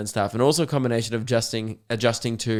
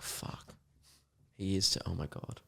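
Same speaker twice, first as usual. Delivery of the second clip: shocked crowd hush; 5 semitones lower, 15 dB quieter than usual. Retold or imitated. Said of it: "And everyone's like".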